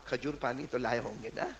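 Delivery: soft, smiling gentle question. Acted. Saint gently asks the pilgrim about dates, smiling softly. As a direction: say it softly with a smile. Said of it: "نے مسکراتے ہوئے کہا".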